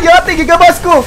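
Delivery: high-pitched outcry; alarmed cry. Real, not acted. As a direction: cry out high after a scream. Cries out under attack. (mataas na hiyaw)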